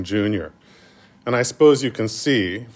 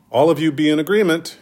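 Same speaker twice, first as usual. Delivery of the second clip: emphatic quote; 5 semitones higher, 4 dB louder, faster than usual. Retold or imitated. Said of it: "he says".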